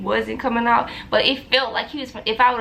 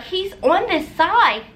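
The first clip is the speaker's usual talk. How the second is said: nurse voice; 6 semitones higher, slower than usual. Retold or imitated. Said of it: "She was like".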